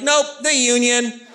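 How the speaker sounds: deadpan punchline. Retold or imitated. Comedian answers his friend with a slow mock-proud punchline. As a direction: land it slowly with mock pride.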